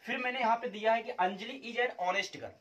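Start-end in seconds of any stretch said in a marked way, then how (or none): 1.1-2.5 slow reading aloud. Shown as a demonstration. Teacher reading the example sentence slowly for students. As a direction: read the sentence slowly, word by word. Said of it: "तीन sentence आपके screen पे लिखे हैं".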